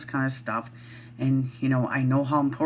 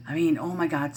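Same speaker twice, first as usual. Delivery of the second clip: ordinary talk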